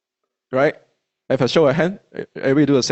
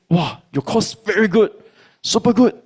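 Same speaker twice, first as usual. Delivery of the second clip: mock praise; 6 semitones higher than usual. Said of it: "the feeling is like".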